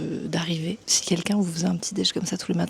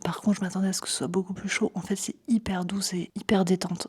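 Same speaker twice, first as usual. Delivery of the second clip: ASMR whisper. Real, not acted. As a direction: whisper gently, close to the mic. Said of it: "c'est un A S M R en direct du dôme". (chuchotement ASMR dans le sauna)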